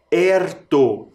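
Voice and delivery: erto said alone with an open stressed é; rhyme ending. Shown as a demonstration. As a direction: isolate erto, open é leading. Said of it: "Pensa na vogal mais forte".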